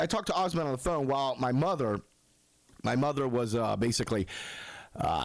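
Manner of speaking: ordinary delivery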